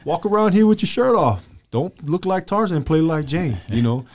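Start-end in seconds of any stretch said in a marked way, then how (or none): 0.0-1.4 lecturing his son. Retold or imitated. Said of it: "I tell my son that all the time". 1.7-3.6 raised pitch, telling his son off; higher lecturing dad voice. Retold or imitated. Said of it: "I tell my son".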